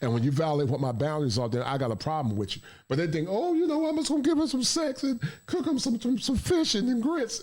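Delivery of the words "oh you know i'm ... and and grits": high, sing-song imitation of a clueless man; mock him in a high voice. Mocking what men think.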